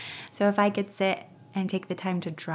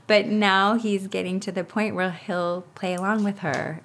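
ordinary delivery

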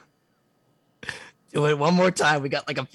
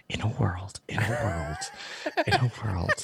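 movie trailer voice; 5 semitones lower, 3 dB quieter than usual. Retold or imitated. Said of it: "he goes in Steve's ear and he goes".

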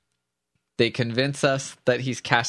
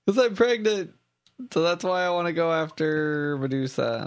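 Snow voice; 5 semitones higher than usual. Retold or imitated. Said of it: "they were gonna be like".

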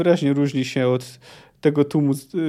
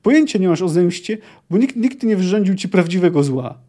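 shouting; 3 semitones higher, 3 dB louder than usual. Acted. Ciri shouts at the old man, louder. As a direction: keep shouting him down. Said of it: "wrzasnęła".

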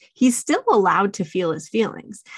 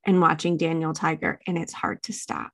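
soothing parent. Shown as a demonstration. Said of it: "I'm just saying".

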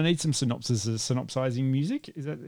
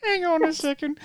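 high, squeaky put-on voice; mock indignant listener. Podcast host voicing his co-host's objection, high put-on voice. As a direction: pipe up in a high comic voice. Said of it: "And you're like".

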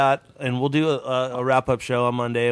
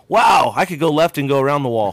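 mock realization shout; 2 semitones higher, 6 dB louder than usual. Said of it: "and then go".

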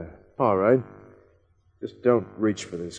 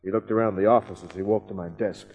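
hardboiled first-person voiceover; noir detective narration. A narrator's reading. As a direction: tell it like a world-weary private eye. Kent narrates the visit.

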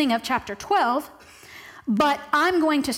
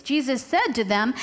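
lightly snarky lead-in, lilting up at the end; a touch of snark as you introduce the reply. Acted. Preacher picturing Jesus answering the Pharisees, lightly snarky. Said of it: "I like to picture it in a snarky voice".

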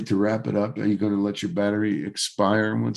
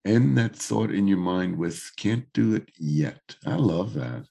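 hoarse, froggy voice; gravelly voice. Real, not acted. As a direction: talk through a rough throat. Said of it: "you're very froggy".

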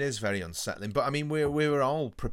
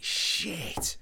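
mock dismay; 8 semitones higher than usual. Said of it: "it must have been like".

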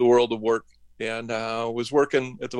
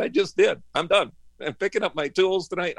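higher, defiant comeback; retold defiance; 7 semitones higher than usual. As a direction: throw it back at him, no give. Defiant reply to the boss.

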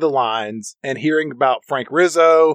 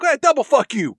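much higher, mocking double comeback; answering a prank caller, pitched way up; escalated comeback; 11 semitones higher than usual. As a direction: top the insult with a sneer. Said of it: "And they're like".

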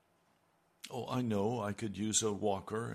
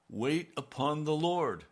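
"Wait upon the Lord" higher and louder, each word hit; emphatic command; 6 semitones higher, 6 dB louder than usual. Retold or imitated. Preacher repeating God's command to himself, higher and louder.

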